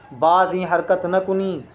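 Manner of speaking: slow, deliberate dictation of बाज ई हरकत न कुनी; teacher slowly reads बाज ई हरकत न कुनी aloud for learners; slow reading. Shown as a demonstration. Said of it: "दोबारा ये हरकत मत करना".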